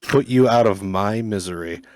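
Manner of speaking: slow, lightly voiced mopey hound; Droopy dog voice. Co-host retrying a film quote for a laugh, droopy dog voice. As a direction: drag it out like a glum cartoon dog. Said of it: "do the quote in the droopy dog voice".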